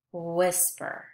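"whisper" with a lengthened oo-like start; stretched wh sound. Shown as a demonstration. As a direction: hold the "wh" of "whisper" a little. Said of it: "They all have the, the woo sound".

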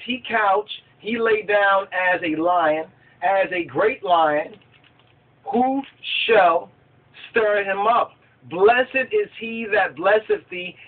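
slow, declaimed Bible verse; scripture reading. Acted. Preacher reads the blessing to listeners, slow scripture declamation. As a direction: read it out with weight, stretching phrase ends.

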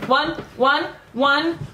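stiff robotic counting, each word the same. Pretend. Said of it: "You sound like a robot".

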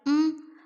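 short agreeing "mm"; understated hum of consent; hum of assent. A narrator's reading. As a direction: hum a small yes. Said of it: "അവൾ സമ്മതഭാവത്തിൽ ഒന്നു മൂളി".

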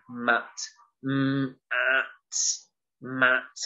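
segmented "mm, at" in a lightly robotic voice. Shown as a demonstration. Teacher showing children segmenting in a light robot voice. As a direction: chop the word into sounds like a robot. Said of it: "we might use a robot voice".

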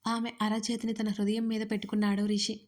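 ordinary delivery

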